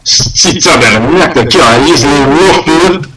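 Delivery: a mock Quebec French mutter; Canadian French. Quebec Corgi speaks in mock Canadian French. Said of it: "It's Canadian French".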